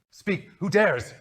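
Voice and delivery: slow, loud, high bellow; bellowing Omega. Acted. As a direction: drag out a booming demand. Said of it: "Omega would bellow".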